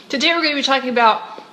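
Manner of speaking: talking around a mint; words round a mint in the mouth; mouth full. Real, not acted. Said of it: "sorry, I have a mint in my mouth".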